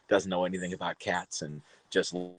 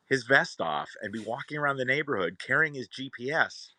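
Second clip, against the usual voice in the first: rude snapping; 7 semitones higher than usual. Retold or imitated. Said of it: "kind of was rude and snapped".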